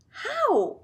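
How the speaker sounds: startled question. A narrator's reading. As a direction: yelp the word. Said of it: "asked Grandpa Joe".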